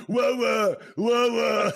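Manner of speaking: high, loud laughing whoas; real excited exclamations. Real, not acted. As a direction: react with delighted disbelief. Laughing reaction to story.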